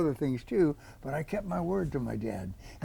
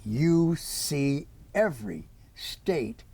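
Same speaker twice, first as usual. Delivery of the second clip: put-on a light British accent as dad; father's earnest urging, lightly British. British father solemnly charging his son, light British accent. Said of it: "in his British accent said".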